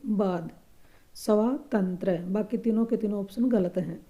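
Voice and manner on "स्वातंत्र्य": स्वातंत्र्य said slowly, syllable by syllable; slow model of स्वातंत्र्य for dictation; slow teacher demo of स्वातंत्र्य; careful pronunciation. Shown as a demonstration. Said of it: "स्वातंत्र्य का शुद्ध रूप".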